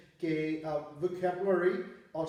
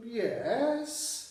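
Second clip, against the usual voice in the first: yes raised high, with a different tune; higher yes; 5 semitones higher than usual. Shown as a demonstration. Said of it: "और अगर मैं यूँ कहूँ".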